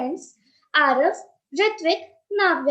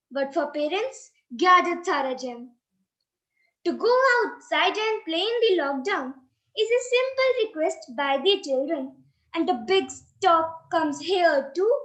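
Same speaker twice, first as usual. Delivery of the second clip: rhythmic recited verse, steady and clear; sing-song stage recitation; poem recital. Acted.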